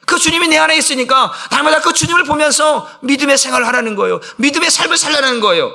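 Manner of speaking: fervent sermon cry; preaching at full force. Acted. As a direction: proclaim it to the congregation.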